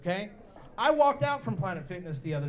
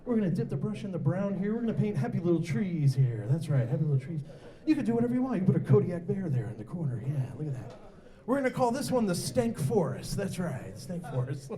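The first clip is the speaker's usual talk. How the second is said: soothing Bob Ross; 3 semitones lower than usual. Retold or imitated. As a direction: reassure like a TV painter. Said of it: "He's like".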